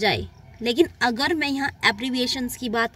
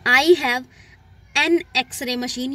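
slow, louder start then drawn-out words; slow test sentence; 4 dB louder, much slower than usual. Shown as a demonstration. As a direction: read the test sentence slowly and clearly. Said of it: "ये sentence देखिए". (परीक्षा वाला वाक्य धीमे, साफ़ पढ़ना)

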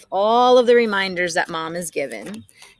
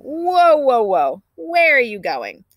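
mom halting him; 5 semitones higher, 5 dB louder, slower than usual. Acted. Mom stops son leaving room.

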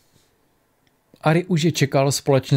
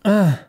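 higher-pitched narrated "ah"; loud cry; 6 semitones higher, 3 dB louder than usual. A narrator's reading. A sound echoing through the stone chamber, loud cry. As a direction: let out a short, raised "ah". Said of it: "ozval se hlasitý zvuk".

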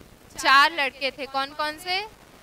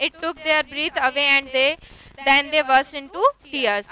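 unhurried reading of the story text; slow story reading; much slower than usual. A narrator's reading. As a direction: read it slowly, word by word, for learners. Slow English reading aloud.

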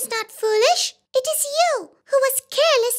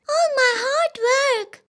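slow, tearful wail; crying out; slower than usual. Acted. Owner mourns the toppled grape tub, tearful. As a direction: grieve the spilled juice. Work ruined, cries.

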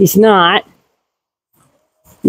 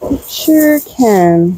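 slower mock gotcha; much slower than usual. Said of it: "And you're like".

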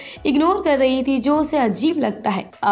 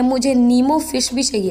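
half-hearted mock yell at the counter; mild retold shout; 3 semitones higher than usual. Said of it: "चिल्ला के बोलने लगती है". (हल्का सा चिल्लाकर माँगना)

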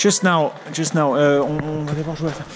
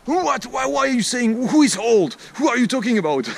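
higher-pitched affronted questioning; mock indignation; 6 semitones higher than usual. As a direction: play the offended old man, protesting. Acts out an offended old man.

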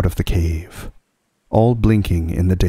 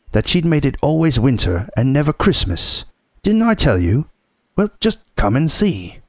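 high, triumphant beaver voice; crowing with glee; excited; 7 semitones higher than usual. Acted. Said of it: "almost dancing with delight".

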